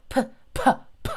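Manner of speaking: "P" as a firm burst of air; isolated, popping "P" sounds; popped P sound. Shown as a demonstration. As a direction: explode each "P" from closed lips. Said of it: "P는 확실하게 터트려주세요".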